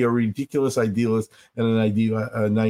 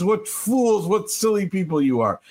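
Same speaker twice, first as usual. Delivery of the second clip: high, derisive mock sneer; mocking scorn; 7 semitones higher than usual. The world scoffing at peace singers, high mocking sneer. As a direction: sneer at them like fools, pitched up high.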